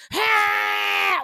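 a short high mock yell of outrage; angry baby yell. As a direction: mimic the furious toddler's cry. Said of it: "just like that".

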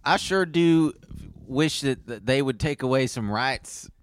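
lightly put-on Southern accent; halting mock Southern, trailing down. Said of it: "do a Southern accent".

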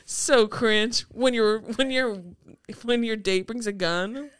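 slow, amused, laughing line. Retold or imitated. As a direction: say it while laughing. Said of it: "She goes".

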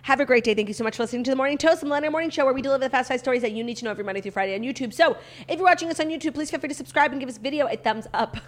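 fast, upbeat host sign-off; show outro. Acted. Podcast outro read.

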